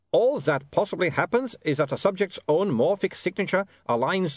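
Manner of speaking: put-on high, accented vampire rolling through jargon; lecturing vampire Otto. A narrator's reading. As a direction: explain it all away as an eager vampire theorist.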